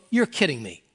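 an outsider stunned that a church would help; surprised disbelief. Retold or imitated. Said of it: "and have people go".

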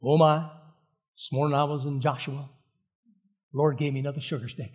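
lightly imitated Southern professor; a hint of a Southern accent, unhurried. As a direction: quote him with a mild Southern twang. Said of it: "he was a wonderful Southern accent".

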